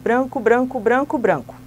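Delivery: "Branco" chanted steadily, again and again; rhythmic repetition. Shown as a demonstration. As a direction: drill "branco" in a steady beat like a class chant. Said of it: "vou fazer uma vez aqui pra você entender".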